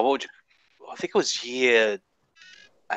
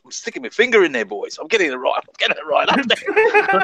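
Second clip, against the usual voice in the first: high, fast mock boast, laughing at the end; hammed-up cocky kid bragging to his mates; bragging schoolmate; 10 semitones higher than usual. Russell boasting to his mates at lunchtime, high, fast mock brag. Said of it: "uh, lunchtime and say".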